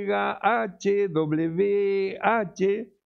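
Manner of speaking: each letter of "H W H" set apart by pauses; deletreado letra a letra. Shown as a demonstration. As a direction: spell out H, W, H one letter at a time, very slowly. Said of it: "del vocablo hebreo Y". (deletreando muy despacio "H W H")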